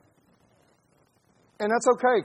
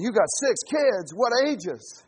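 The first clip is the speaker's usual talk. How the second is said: mock shock; 5 semitones higher, 5 dB louder, slower than usual. People's shocked reply to six kids.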